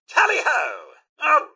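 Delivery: high-pitched British charge call; rallying cry. Acted. Butler charging off with his sir, rallying cry. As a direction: cry out as if leading the hunt.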